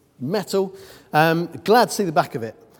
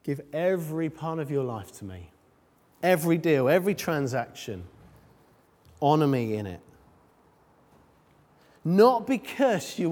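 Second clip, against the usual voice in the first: softer and slowing right down, tender; God's gentle voice; 3 semitones lower, 4 dB quieter than usual. Acted. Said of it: "the Lord speaks to you and he says".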